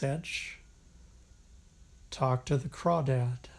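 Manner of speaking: measured poetry recital, long pauses between phrases; unhurried, even poem delivery with spacious breaks; poem reading. Acted. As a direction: read it as verse, letting each line settle. Reads a poem aloud.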